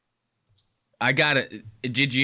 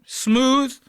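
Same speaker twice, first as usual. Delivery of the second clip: smooth; 8 semitones higher, 4 dB louder, much slower than usual. Shown as a demonstration. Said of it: "let's start out smooth".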